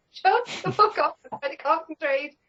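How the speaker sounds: high, irritated mock snap. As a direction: snap at the imagined monk. Snapping at imagined monk.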